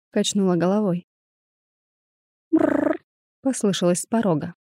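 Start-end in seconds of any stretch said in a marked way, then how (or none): 2.5-3.0 rolled, trilled cat purr; brief trilling purr like a cat. A narrator's reading. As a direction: imitate a short purring "mrrr". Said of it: "мурлыкнул кот".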